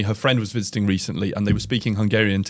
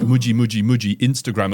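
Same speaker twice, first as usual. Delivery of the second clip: Hungarian pronunciation. Retold or imitated. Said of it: "in the Hungarian way".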